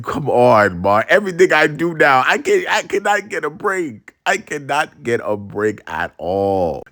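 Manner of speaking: imitated fed-up son; exasperated protest. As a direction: protest to Ma, then give up. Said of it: "And I was like".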